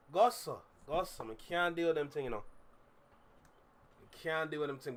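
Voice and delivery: Toronto slang in a put-on accent; mock Toronto accent. Streamer mocking Canadian dudes' talk, put-on Toronto accent. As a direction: imitate the Toronto accent you dislike. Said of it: "You're not getting that accent from me".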